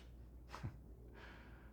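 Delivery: low-volume breathy laugh; soft chuckle. Acted. Doctor noting they don't know his dreams, soft chuckle. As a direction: chuckle quietly to yourself. Wry aside in monologue.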